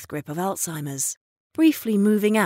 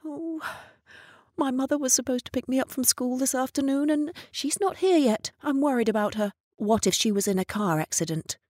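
higher, a touch of whimpering worry; soft whimper; 6 semitones higher, faster than usual. Retold or imitated. Missus Hall frets about her mother, lightly whimpering. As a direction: fret softly like a lost child. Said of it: "began to whimper softly".

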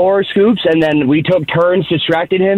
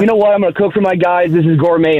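proud host, imitated; 2 semitones higher than usual. Host cooking for his guys, imitated pride. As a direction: play the pleased first-time cook. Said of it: "he was proud of the meal".

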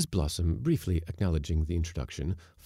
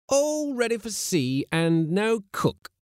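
high, loud, slow lament; grumbling mate, drawn out and louder; gloomy; 7 dB louder, slower than usual. A narrator's reading. Mate to his skipper with no cook aboard, gloomy. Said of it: "said the mate of the schooner Gannet gloomily".

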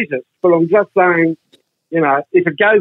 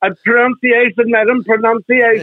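higher-pitched elocution scolding; mock-pompous correction; 5 semitones higher than usual. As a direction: correct her diction with playful grandeur. Mock correction of the woman's accent.

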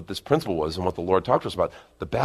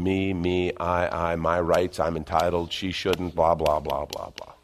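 monotone run-on mock grumble, sinking away; self-centred yammering; 4 semitones lower, slower than usual. The flesh going on about itself, mock droning. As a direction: rattle off a selfish list, trailing into babble. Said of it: "Flesh is just going".

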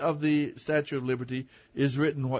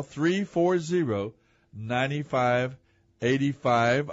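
slow the number down so listeners can write it; slow, spelled-out digits; 3 semitones lower, much slower than usual. Shown as a demonstration. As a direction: read each digit slowly and clearly. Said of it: "you can give us a call".

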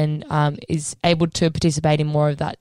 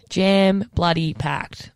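Jam bloody packed, slow, each word hit; stress on bloody; much slower than usual. Shown as a demonstration. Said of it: "jam-packed".

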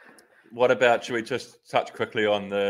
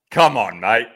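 high, pally coaxing that climbs higher; 7 semitones higher, 3 dB louder, slower than usual. Retold or imitated. Coaxing Filippo during the group ride: rising, wheedling. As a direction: sweet-talk a teammate for a secret.

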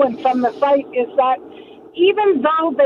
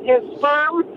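car speakerphone. Real, not acted. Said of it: "I'm driving hands-free".

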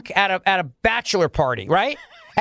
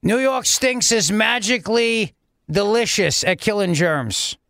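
mock governor ad. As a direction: sell the sanitizer like a cheesy TV ad. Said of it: "his governor voice".

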